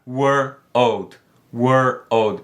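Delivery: put-on "were, old" said slowly, pulled apart; slow drill joining the two parts. Shown as a demonstration. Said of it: "bem devagar".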